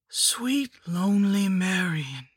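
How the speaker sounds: high whispered hag voice, drawn out; witch voice. Acted. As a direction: croon it like a rotting crone. The hag repeats her greeting.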